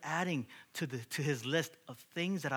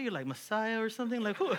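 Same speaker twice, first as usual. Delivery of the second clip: high, loud disbelief; incredulous, nearly laughing; mock astonishment; 8 semitones higher, 5 dB louder than usual. Homeowner stunned by the humble handyman, loud mock astonishment.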